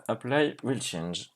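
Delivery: slow, low English with a French accent. Real, not acted. Streamer showing off his magnificent English, French accent. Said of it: "mon magnifique accent anglais".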